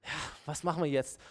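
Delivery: mock understanding. The sympathy we want to hear, mock gentle. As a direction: imitate a commiserating listener. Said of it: "Wir wollen nämlich Verständnis".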